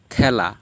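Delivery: খেলা with an open "ae", khae-la; correct pronunciation. Shown as a demonstration. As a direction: open the first vowel of খেলা. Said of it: "আমরা খেলা বলি".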